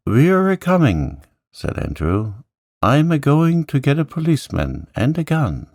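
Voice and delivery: a bluff groom shouting back; country servant. Acted. Andrew shouting up to the tower as a rustic servant.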